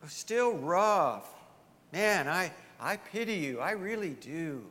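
sweet-talking like a fake friend; sympathetic tempter. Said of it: "Satan's voice might sound like this".

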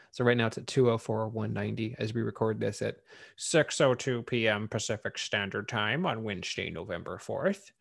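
fast newsreader delivery; reporter voice. Acted. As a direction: read it like a news anchor. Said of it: "that's my, uh, reporter voice".

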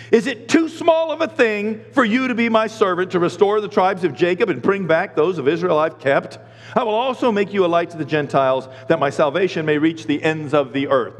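scripture as a challenging question; reading it wrong. Shown as a demonstration. Pastor misreads God's answer as rebuke, challenging. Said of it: "but I read that wrong".

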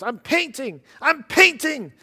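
high, excited TV host exclaiming; Regis voice. Retold or imitated. Pastor imitating Regis amazed at painting, high and excited. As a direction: bounce it up like a thrilled talk show host. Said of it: "in his Regis voice".

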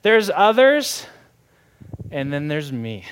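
proud, setting himself apart; smug Pharisee mindset. Pretend. Preacher voicing the Pharisee's mindset to the church, smug. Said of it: "a Pharisee's kind of mindset is like".

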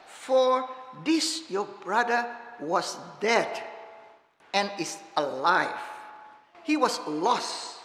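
earnest pleading, slowing down on key phrases; a father pleading gently with his angry son; passionate father. Acted. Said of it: "You can hear the passion in the father's voice".

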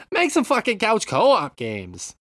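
put-on loud, high, slow half-hearted Boston accent; slow, loud half-baked Boston accent rant. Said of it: "It's like half a Boston accent".

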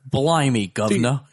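lightly put-on English accent; mock English accent, questioning lift at the end; attempted English accent. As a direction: have a tentative go at an English accent. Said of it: "in an English accent as best you can".

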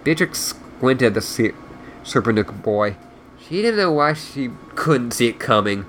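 reading a novel aloud; story narration. A narrator's reading. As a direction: narrate the book in storyteller mode. Reads the book aloud.

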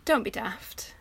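soft, kindly brush-off; sweet and gentle. Retold or imitated. Quoting Lovejoy turning down charges, sweet and gentle. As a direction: say it softly, gently dismissing. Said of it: "It was very sweet and gentle".

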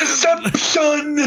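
slow ominous trailer voice; horror trailer voice. Pretend. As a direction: stretch it out like a trailer. Trailer bit continues.

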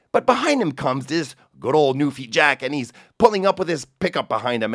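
casual Newfoundland storyteller, hammed up a bit; Newfoundland accent. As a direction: tell it in a Newfoundland lilt. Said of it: "avec ma meilleure imitation du merveilleusement charmant accent celtique".

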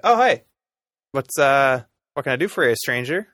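a hint of a welcoming druid character; lightly voiced dragonborn. GM voices dragonborn greeting a stranger.

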